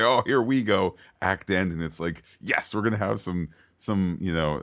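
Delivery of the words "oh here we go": excited "here we go". Retold or imitated. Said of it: "we say".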